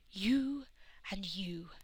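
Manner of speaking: querulous priestess announcement, drawn out; single them out querulously. A narrator's reading. Priestess picks Rose and Donna, querulous. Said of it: "she announced querulously".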